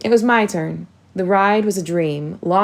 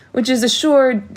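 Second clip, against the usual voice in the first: through peals of laughter; 6 semitones higher, 4 dB louder than usual. A narrator's reading. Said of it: "peals of laughter".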